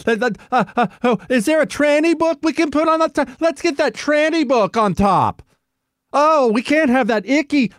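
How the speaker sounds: high mocking voice of fussy editors. Host mocks Times editors' meeting, high mocking voice. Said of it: "can you even imagine the little meeting they had?".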